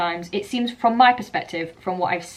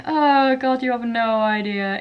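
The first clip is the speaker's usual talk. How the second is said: exasperated; 4 semitones higher, 4 dB louder, slower than usual. Retold or imitated. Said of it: "It's kind of saying".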